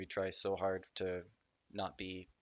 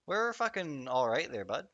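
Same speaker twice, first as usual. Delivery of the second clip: sharp Canadian accent; 4 semitones higher than usual. Real, not acted. Assuring a friend they're fine, sharp Canadian accent. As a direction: let the Canadian accent come out hard. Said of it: "that's my, uh, sharp Canadian accent coming out".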